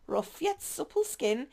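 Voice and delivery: a hint of slow swooning admiration; lightly dreamy villain. Flirty agent describes her love, slow and dreamy. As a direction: savour each word like a daydream.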